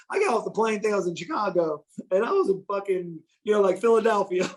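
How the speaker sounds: mildly hammed-up retelling of a drunk friend; exaggerated retelling. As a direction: ham up his confusion a little. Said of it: "I'm exaggerate".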